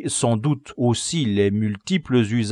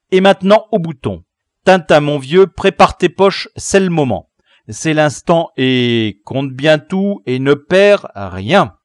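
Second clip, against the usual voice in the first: put-on loud, higher, jubilant boy leader; joyful cry; 5 semitones higher, 10 dB louder than usual. Leader to Tintin before collecting buttons, joyful shout. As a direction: cry it out with glee. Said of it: "s'écria joyeusement".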